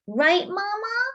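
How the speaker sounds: high, hopeful appeal to Mama; seeking backup. Acted. Girl asks Mama to back her up, high and hopeful. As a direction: turn to Mama for support.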